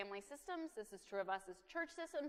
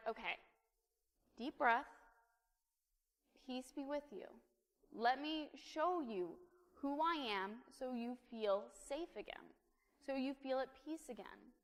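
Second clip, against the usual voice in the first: calm, measured soothing voice; gentle reassurance. Acted. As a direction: settle someone with patient, spaced-out phrases. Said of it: "he does it better than I do".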